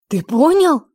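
loud, high, delighted question; light up with hope. A narrator's reading. Lir thrilled his friend caught the trick, delighted. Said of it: "обрадовался Лир".

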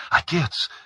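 high, loud cry for his father; shouted cry. A narrator's reading. Son crying out to his father, loud and high. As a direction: yell it out in alarm. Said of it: "крикнул юноша".

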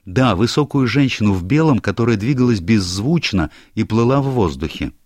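a hint of an anxious young clerk; lightly voiced young secretary. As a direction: play the flustered secretary explaining himself. Secretary's account.

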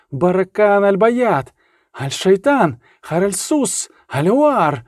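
incantation. A narrator's reading. Reynevan desperately reciting mock Arabic exorcism, intoning. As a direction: intone each phrase with growing insistence.

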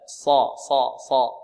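emphatic صا without rounded lips; thick s, open lips on صا; heavy sad. Shown as a demonstration. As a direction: keep صا heavy but unrounded. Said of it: "ولا نضم الشفتين في الصاد".

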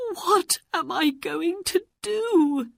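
high-pitched desperate wondering aloud; acted despair, voice pitched right up. Aladdin to himself, trapped and alone, despairing.

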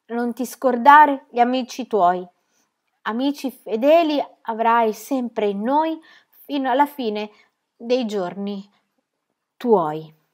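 slow, faltering farewell poem; a hint of a boy's voice trembling. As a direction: read the poem fighting tears. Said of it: "la voce dovesse tremargli tanto".

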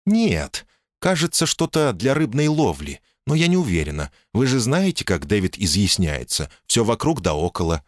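calm, sensible woman speaking up high; woman's voice. Acted.

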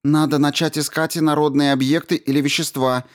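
commanding woman. A narrator's reading. Commander Rao orders the crew over the radio, firm and high. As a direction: give the order crisply.

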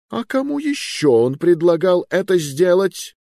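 high, loud demanding question; interrogating king. Acted. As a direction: press him for names.

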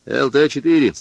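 loud urgent call over the radio. A narrator's reading. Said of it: "вызывал радист".

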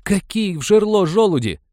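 high, loud indignant cry; outraged shout. A narrator's reading. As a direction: refuse it at full voice.

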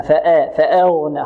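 فأغنى with the hamza vowel wrongly tilted toward e; thin the hamza of فأغنى until its a leans to e. Shown as a demonstration. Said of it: "خطأ".

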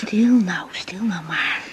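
soft soothing whisper to calm him; whispered comfort to a hurt friend; hushing whisper. Acted. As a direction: shh him gently, barely voiced. Calming her injured friend.

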